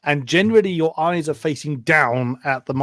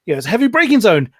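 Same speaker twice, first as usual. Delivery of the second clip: car salesman drop; 3 dB louder than usual. Shown as a demonstration. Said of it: "what I refer to as the car salesman way".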